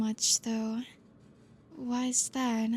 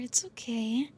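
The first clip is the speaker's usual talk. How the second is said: whisper. Acted. Teacher to a nervous student, hushed whisper. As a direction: whisper it to calm them.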